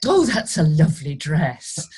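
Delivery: lightly imitated audience comment; audience member piping up. Second audience voice piping up about her costume, lightly imitated. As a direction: pipe up from the stalls, mildly put on. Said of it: "then another one piped up".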